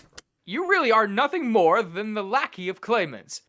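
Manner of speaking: taunting, high, loud villain. Acted. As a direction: sneer at the hero. Voicing a villain in a story.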